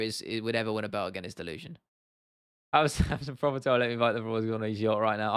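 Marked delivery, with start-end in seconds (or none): 2.7-5.3 put-on light Irish accent reading chat aloud; a hint of an Irish accent, half-laughing; McGregor accent. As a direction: read it in a mild Irish lilt. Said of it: "visualizing that in a McGregor accent".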